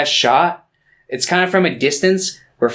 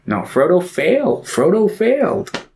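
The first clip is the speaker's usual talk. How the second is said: higher-pitched, drawn-out contrarian voice; mock insistence; 7 semitones higher than usual. Imagined friend arguing about Frodo, mock insistence. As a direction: insist on it, stretching the repeat.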